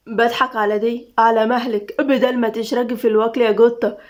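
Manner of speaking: gentle, understated tease; teasing guard Tamim. Acted. Guard teasing the lady about eating, playful.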